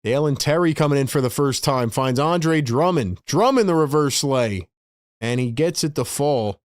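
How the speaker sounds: play-by-play call building slightly into the basket; live play-by-play. Real, not acted. Streamer calling a Sixers layup live, play-by-play. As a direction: draw out the names as the play develops.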